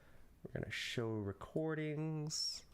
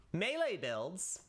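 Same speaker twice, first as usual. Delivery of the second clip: slow playful reveal; 6 semitones higher, slower than usual. Shown as a demonstration. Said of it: "I can be funny about this".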